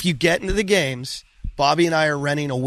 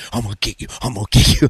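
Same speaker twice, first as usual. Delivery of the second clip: menacing chaser; 5 semitones lower, faster than usual. Retold or imitated. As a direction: keep up the pursuer's chant. Imitates runner chasing behind him.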